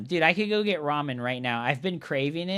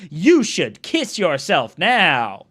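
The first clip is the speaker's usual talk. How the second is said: slow, loud, emphatic order; booming mock-serious command; 6 dB louder, slower than usual. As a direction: punch each word like a hammed-up decree. Mock commanding meme quote.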